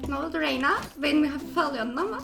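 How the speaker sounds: put-on soft thin anime girl voice; quiet cutesy e-girl voice; man doing a woman's voice. Holds girl voice in game.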